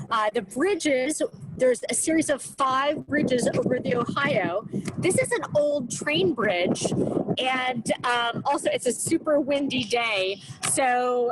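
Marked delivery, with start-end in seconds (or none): 5.0-11.3 muffled. Real, not acted. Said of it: "if I sound muffled, it's because I'm sort of fighting with the wind".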